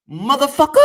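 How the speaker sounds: high, comic cry with a rising tail; Brother Panic. Retold or imitated. Borrowing a brother's catchphrase because laughter is important, high comic cry. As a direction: stretch it upward like a catchphrase. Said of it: "that's straight from my brother Panic".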